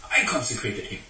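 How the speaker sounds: a hint of Micah lamenting; aggrieved Micah. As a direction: voice the wronged idol maker. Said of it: "But then he said that".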